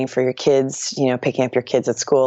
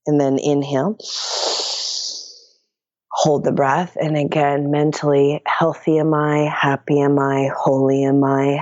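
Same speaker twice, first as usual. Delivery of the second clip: guided meditation. Acted. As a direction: lead the breath calmly, chanting the mantra. Leads mantra repetition.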